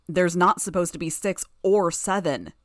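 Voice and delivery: roar. Acted. Gru roaring at Tattletale over the count. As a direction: roar it out in protest. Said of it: "Gru roared in his unearthly voice".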